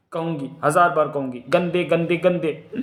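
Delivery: insistent, bratty repetition; defiant taunt. Acted. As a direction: hammer out each insult stubbornly. Defiant child keeps taunting him.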